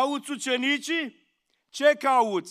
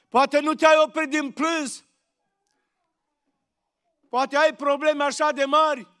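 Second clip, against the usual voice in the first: impassioned preaching. Acted. Preacher urging the congregation to stop weeping, fervent appeal. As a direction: press the question home to every listener.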